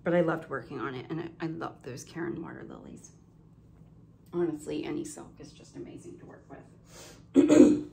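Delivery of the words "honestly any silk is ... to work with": throaty, frog in throat; a bit of a frog in the throat. Real, not acted. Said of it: "I have a frog in my throat".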